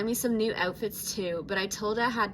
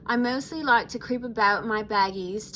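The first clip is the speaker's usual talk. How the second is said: lightly put-on Australian accent; Australian accent attempt; 5 dB louder than usual. Shown as a demonstration. Vlogger restarts Laguna's profile line in an attempted Australian accent. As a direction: switch into an amateur Australian accent, a bit louder. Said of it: "should I do the accent?".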